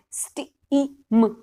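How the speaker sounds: "स्टीम" stretched very slowly, sounds blended; slow blended word. Shown as a demonstration. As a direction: draw "स्टीम" out as you blend it. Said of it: "जोर से बच्चे को पढ़ानी है". ("स्टीम" बहुत धीरे खींचकर)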